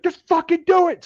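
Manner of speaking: high-pitched mock yell; imitated screaming. Drill sergeant urging recruit across monkey bars, imitated scream.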